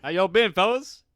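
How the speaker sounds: host attempting a Boston accent for guests, poor Boston accent. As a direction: ham up a Boston accent badly. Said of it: "That was a poor Boston accent".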